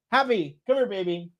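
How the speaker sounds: high, soft pet-calling voice; calling the dog. Real, not acted. Owner calling their dog Happy over, high and coaxing.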